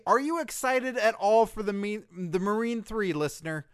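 high, loud squeaky dummy voice; shrill dummy hyping a DVD; squeaky ventriloquist dummy. Pretend. Squeaky puppet voice pitching DVD.

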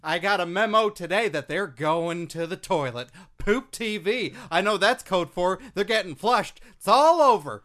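brash gleeful voice; loud gleeful character. Acted. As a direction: gloat loudly about the news. Serge Carter character voice.

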